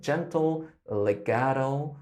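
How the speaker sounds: smooth, slow and connected; gentle legato. Shown as a demonstration. Coach shows the smooth gentle voice. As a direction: let it flow gently. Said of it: "almost like there's a character to it".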